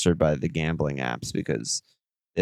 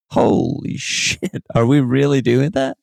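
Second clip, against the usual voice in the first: laughing disbelief; 4 semitones higher than usual. Real, not acted. Reacting to triple stack idea.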